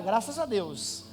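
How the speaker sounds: evasive. Retold or imitated. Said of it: "Nem sim, nem não".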